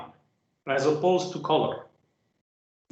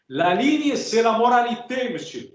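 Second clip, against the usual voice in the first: mock indignant shout, pitched higher; Ingres shouting; 7 semitones higher than usual. Ingres berating Delacroix over color, mock shout. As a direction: declare it like an outraged old master scolding a rival. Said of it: "something that Ingres shouted".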